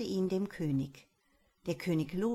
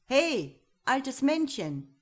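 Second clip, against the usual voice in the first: loud high call, drawn out slowly; 6 semitones higher, 6 dB louder, slower than usual. A narrator's reading. The boy calls the grey little man in the woods, loud slow call. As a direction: shout into the forest for the little man. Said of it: "rief er wieder".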